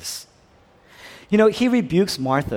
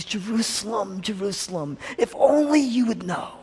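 hushed, higher-pitched lament, swelling at the end; tearful lament; 5 semitones higher than usual. Acted. Jesus looking at the city of Jerusalem, in a tearful lament. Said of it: "And he's in tears".

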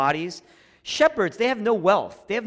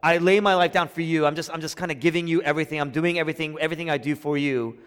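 light, quick, dismissive voicing of the wrong meaning; breezy half-hearted offer; mock wrong version; faster than usual. Shown as a demonstration. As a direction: toss it off like a hired hand. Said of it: "He's not saying".

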